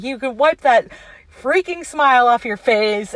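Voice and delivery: imitated irate telling-off; going off. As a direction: hit the swear substitute like a fed-up customer. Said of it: "he's just going off".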